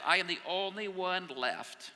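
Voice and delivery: high, loud and drawn-out lament; self-pitying outcry. Acted. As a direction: wail it slowly, wallowing in self-pity. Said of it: "He's having a little pity party".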